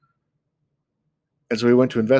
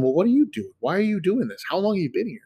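higher, insistent questions as Nanabush; questioning Nanabush; 8 semitones higher than usual. Retold or imitated. Nanabush questioning the lazy villagers, higher and pressing. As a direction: press them with rising concern. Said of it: "he asked them".

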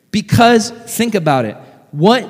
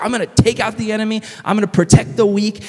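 passionate heroine; 5 semitones higher, faster than usual. Acted. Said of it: "She's missional. She has a mission".

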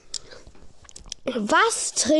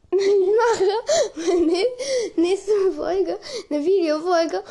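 laughing; 5 semitones higher, slower than usual. Real, not acted. Laughing through sentence.

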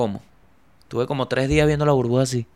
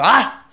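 mild mock yell; 11 semitones higher, 8 dB louder than usual. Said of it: "grité de verdad".

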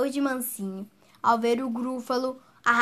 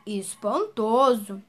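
very slow, drawn-out amazement; astonished; 2 semitones lower, much slower than usual. Acted. Gruffalo astonished as the snake flees, awed. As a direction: let the word hang in awe. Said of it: "falou abismado".

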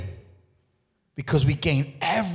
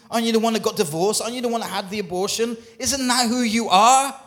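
1 mock accuser; 5 semitones higher than usual. Preacher voices a mocking accuser.

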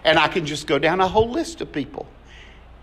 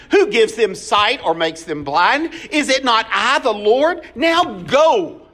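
forceful God; 3 semitones higher than usual. Retold or imitated. God answering Moses from the bush, with mild force. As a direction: press him with questions, then order him. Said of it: "God responds with a little force here".

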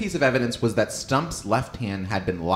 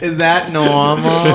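whiny annoying voice; 5 semitones higher, 8 dB louder, slower than usual. Pretend. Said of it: "more annoying person".

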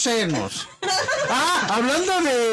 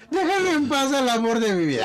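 imitating a mother; 5 semitones higher than usual. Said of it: "estuviera tu madre diría".

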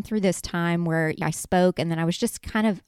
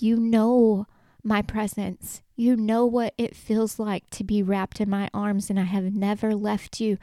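emotional reassurance; 3 semitones higher than usual. Retold or imitated. Jesus promising peace and rest, emotional and tender. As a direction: comfort them earnestly, moved by the words. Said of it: "this makes me emotional".

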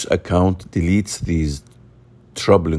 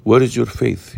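raised, louder rebuke, pitched up high; Jesus rebuking his frightened disciples, raised and stern; rebuking question; 6 semitones higher, 4 dB louder, faster than usual. Retold or imitated. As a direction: ask it as a sharp reproach. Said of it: "softens, uh, Jesus' response".

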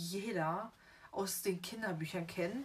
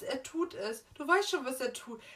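mock Dudley wail; 4 semitones higher, 4 dB louder than usual. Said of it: "Vor allem dieses".

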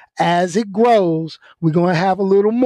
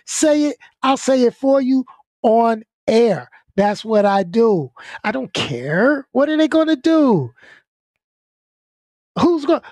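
defiant outburst; 5 semitones higher than usual. Real, not acted. Defiant rant at critics.

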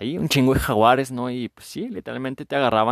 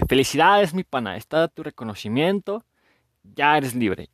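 higher, playful award-giving; mock congratulations; 4 semitones higher than usual. Gods congratulating the dead soul on freedom, mock congratulations. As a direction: hand over the prize with playful cheer.

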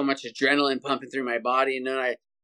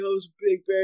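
higher, dazed imitation of dad; shaken dad; 6 semitones higher, faster than usual. Son imitating his stunned father, higher-pitched and dazed. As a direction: play dad still in shock. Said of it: "He's like".

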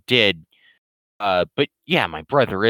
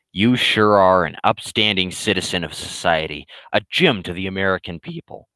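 dry sarcastic praise, a bit lower; 3 semitones lower than usual. Retold or imitated. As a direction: praise him with a deadpan sneer. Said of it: "being sarcastic".

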